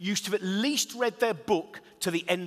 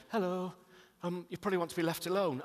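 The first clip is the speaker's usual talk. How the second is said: quietly imitating a shy young man, a bit softer; sheepish; 6 dB quieter than usual. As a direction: mimic his timid, apologetic approach. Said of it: "really sheepishly".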